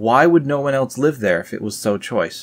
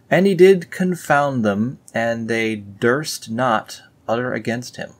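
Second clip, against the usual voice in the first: raised, solemn scripture read; 3 semitones higher than usual. Acted. Reading scripture aloud to viewers, mock solemn. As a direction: intone it like an old holy book.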